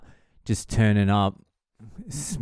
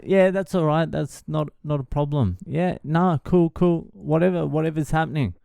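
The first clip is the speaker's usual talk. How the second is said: high, fake-agreeable through an angry frown; lightly acted, pitched-up forced okay; grudging agreement; 6 semitones higher than usual. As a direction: pretend it's fine while annoyed. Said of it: "With a big frown, angry frown".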